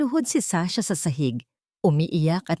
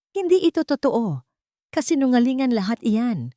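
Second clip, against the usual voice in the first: desperate shout; 6 semitones higher than usual. A narrator's reading. Arlo shouting denials as police hold him. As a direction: yell it while struggling free. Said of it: "Sigaw ni Arlo".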